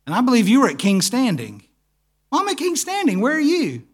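two dads yelling into phones at different pools; exasperated phone shouting. Retold or imitated. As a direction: bicker down the phone, each sure he is right. Acted phone quarrel about pools.

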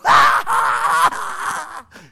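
high, loud disbelieving laugh; loud burst of laughter. Retold or imitated. Telling how he laughed at the coworker, a loud incredulous laugh. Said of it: "I started laughing".

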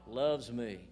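ringing call for the congregation to repeat; loud call-and-response line; declaring aloud. Shown as a demonstration. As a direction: proclaim it loud so they echo it. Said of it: "Let's say it".

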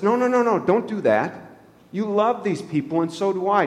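mildly acted Moses begging God; pleading Moses.

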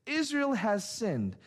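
pointed, accusing statement; emphatic literal rendering. Shown as a demonstration. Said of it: "it would sound more like this".

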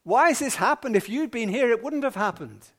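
upset. Acted. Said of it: "She was a bit upset".

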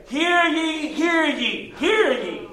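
high calling barker cry; carnival barker. Retold or imitated. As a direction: call it out like a barker. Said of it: "what they call barkers".

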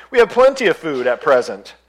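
breezy grasshopper boast; carefree chirpy grasshopper. Acted. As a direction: shrug it off, carefree. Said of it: "replied the grasshopper".

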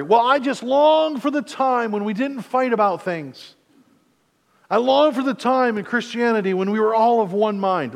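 put-on lampoon someone pining for the old days; wistful mock longing. Preacher mocking a believer pining for unity, high wistful sigh.

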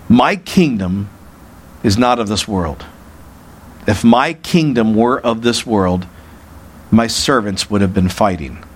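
measured, low, firm answer; grave declaration with deliberate pauses; emphatic, straightforward. Acted. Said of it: "He gave him a very emphatic, straightforward answer".

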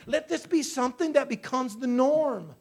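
rising to a loud preaching cry; fervent prayer cry. Acted. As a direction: cry out to God in full force.

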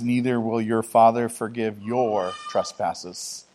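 slow, measured reading of prayer; scripture recitation. Acted. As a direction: read the verses reverently and unhurried.

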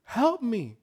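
high, slow crying plea to the Lord; desperate plea. Retold or imitated. Pastor voicing his inner prayer with a high, tearful plea. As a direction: beg God for help, voice near tears. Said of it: "inside I'm like".

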